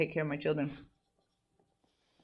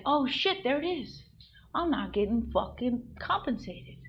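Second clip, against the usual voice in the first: high-pitched retold discovery; higher, astonished self-talk; sudden realization; 7 semitones higher than usual. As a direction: re-enact the moment it dawns on you. Acting out her sudden realization.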